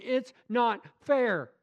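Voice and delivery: slow, high, drawn-out complaint; whiny protest. Retold or imitated. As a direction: whine it like a sulking child.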